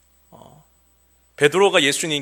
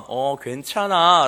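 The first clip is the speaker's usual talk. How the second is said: gentle forgiving; 2 semitones higher, 6 dB louder, much slower than usual. Retold or imitated. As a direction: let it go calmly. Calm forgiving answer.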